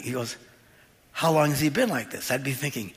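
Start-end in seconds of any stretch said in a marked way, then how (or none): 1.1-2.3 understated, unruffled question; not panicking. Acted. Jesus asking the boy's father amid chaos, calmly. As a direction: ask it quietly, as if nothing were wrong. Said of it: "he's not panicking".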